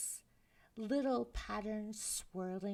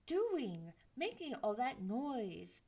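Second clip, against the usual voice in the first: mild snap; 3 dB louder than usual. Acted. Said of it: "she snapped".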